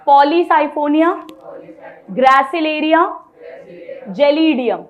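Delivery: stretched slowly, each name its own beat; slow recitation. Shown as a demonstration. Teacher drills red algae names, reciting very slowly. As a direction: draw out every name for the class to echo. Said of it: "बोलो".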